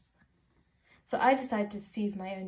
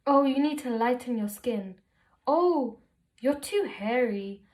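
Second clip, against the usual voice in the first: lightly voiced auntie, louder than usual; nagging auntie; 3 semitones higher, 5 dB louder than usual. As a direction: give a hint of a tutting auntie, louder. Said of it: "one particular auntie constantly makes those statements, you know, the ones I'm talking about, where they're like".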